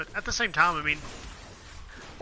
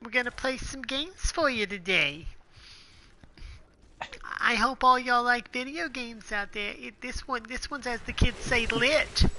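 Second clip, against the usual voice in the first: high, slow hyped host voice; YouTuber intro voice; 8 semitones higher, slower than usual. Pretend. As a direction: hype the viewers like a YouTuber. Continuing mock YouTuber intro.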